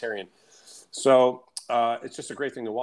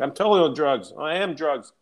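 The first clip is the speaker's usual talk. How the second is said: higher, mock-euphoric quote; amped up; 4 semitones higher than usual. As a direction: imitate a man gleefully amped up. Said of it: "he's all amped up".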